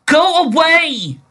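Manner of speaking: slow, high, loud eerie voice from nowhere; ghostly voice. Acted. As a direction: drag it out like a haunting spirit. Mysterious voice in the cave.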